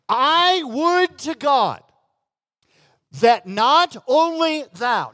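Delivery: slow, solemn scripture quote; preacher intoning King James scripture; reading Paul's words. Retold or imitated. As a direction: lift and stretch the old words. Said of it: "and Paul said".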